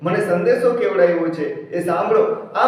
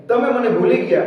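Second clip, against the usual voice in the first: the repeat lifted higher in grief; Sita's heartbroken cry, pitched up; rising lament; 5 semitones higher than usual. Acted. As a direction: cry it out, higher, as Sita to her lord.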